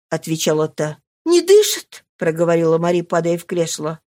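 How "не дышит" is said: high, louder frightened question; a daughter fearing her father is dead; frightened gasp. Acted. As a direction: ask it dreading the answer. Mari fears father is dead.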